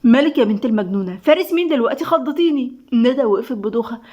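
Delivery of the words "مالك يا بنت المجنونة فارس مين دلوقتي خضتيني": mildly startled scolding. Acted. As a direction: protest at being given a fright. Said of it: "دموع فتحت عينيها بخضة".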